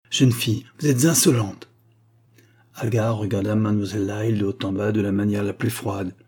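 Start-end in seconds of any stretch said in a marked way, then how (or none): 0.1-1.7 raised-pitch, scolding reproof; indignant rebuke. Acted. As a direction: put the young woman in her place. Rebuking Agar for talking back.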